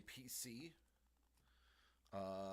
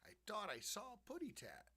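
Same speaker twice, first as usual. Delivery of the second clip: Tweety; 9 semitones higher than usual. Retold or imitated.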